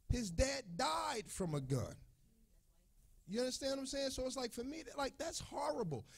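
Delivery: barely holding it together; real crying voice, high and strained; tearful, voice breaking. Real, not acted. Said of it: "It's making me emotional".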